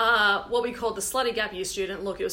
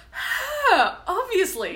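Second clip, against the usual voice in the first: lighter replay of the outburst; 10 semitones higher, 5 dB louder, much slower than usual. Retold or imitated. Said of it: "just Liam going".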